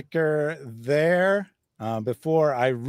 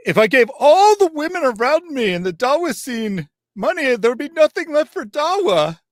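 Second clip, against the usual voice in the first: higher, louder, whiny mocking imitation; mock excuse; 12 semitones higher, 8 dB louder than usual. Streamer mocking Hijab's excuse to Aisha, in a high, loud whine. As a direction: ham up a lame excuse. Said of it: "excuses that Muhammad Hijab gave".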